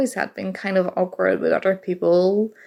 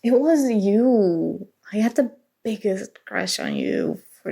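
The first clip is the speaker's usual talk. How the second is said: hesitant confession. Acted. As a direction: drag each word out, nervous and sincere. Finally confessing her long crush.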